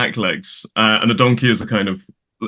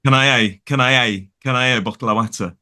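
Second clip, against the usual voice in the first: imitating Nottinghamshire, "water" as "watter"; father's Midlands accent. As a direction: Midlands elision, "have" cut to "a". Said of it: "my father will pronounce water as watter".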